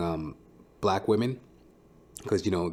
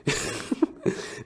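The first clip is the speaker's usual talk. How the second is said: breathy laugh; 11 semitones higher than usual. Real, not acted. Laughs at his own impression.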